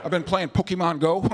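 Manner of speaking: hesitant, clueless ex-president impression; stall, then answer sheepishly; George W. Bush. Former president asked what he has been doing, clueless impression. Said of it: "But with George W. Bush, they'll be like".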